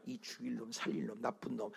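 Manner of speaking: mock curse. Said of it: "이렇게 비춰만 줬는데".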